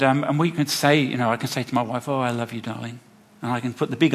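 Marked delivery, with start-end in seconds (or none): 2.1-3.0 romantic. Shown as a demonstration. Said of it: "say it most, most romantic voice".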